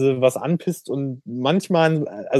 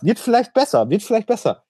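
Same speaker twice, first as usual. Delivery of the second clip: mock hopeful; 7 semitones higher than usual. Mocking hopeful viewers.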